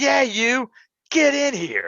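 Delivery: high, swooping, drawn-out yell. Retelling how a drunk wrestler called him into the ring: imitating Sandman screaming. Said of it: "he starts screaming again".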